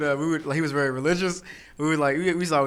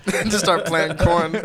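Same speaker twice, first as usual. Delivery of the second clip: laughing; 4 semitones higher, 4 dB louder, slower than usual. Real, not acted.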